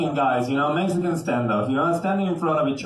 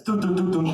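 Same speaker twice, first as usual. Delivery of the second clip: hummed dramatic sting. Retold or imitated. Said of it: "the music goes like".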